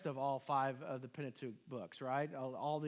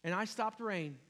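complaining; 5 dB louder than usual. Retold or imitated. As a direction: list your deeds to God in a put-upon voice. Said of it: "responded with a list of whining and complaining".

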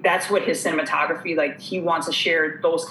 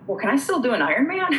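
laughing question; 8 semitones higher than usual. Retold or imitated. Retelling asking cardiologist, laughing.

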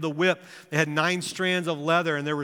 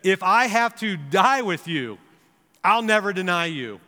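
insistent, slowed-down vow; 3 semitones higher, 4 dB louder than usual. Retold or imitated. Peter swears to Jesus he'll never deny him, insistent. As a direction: quote Peter vowing loyalty, stressed and deliberate. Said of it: "But Peter kept insisting".

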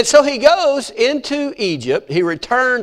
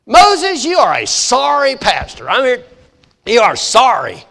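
mock complaining crowd; 2 semitones higher than usual. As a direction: blame Moses, hammed-up outrage. Israelites complain at Red Sea.

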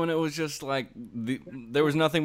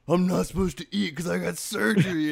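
higher, mildly panicked voice; alarmed realisation; 5 semitones higher, 4 dB louder than usual. Retold or imitated. Stoned patient remembering morning surgery, alarmed. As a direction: act a sudden dawning dread.

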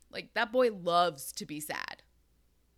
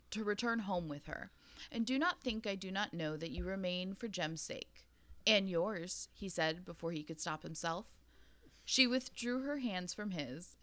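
reading a novel aloud. Acted. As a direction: read the passage like an audiobook narrator. Reads a quote from the book.

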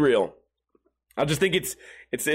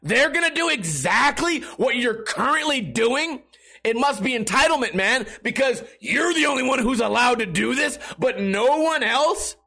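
rising into a mock incredulous shout; sarcastic comeback that builds to a shout; sarcastic retort; 4 semitones higher than usual. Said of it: "I'm like".

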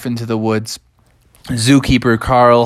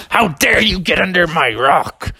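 higher, put-on snake voice; indignant cobra; 5 semitones higher than usual. Cobra confronting the bear who lifted its rock, indignant. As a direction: scold as an offended cobra. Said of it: "the cobra said".

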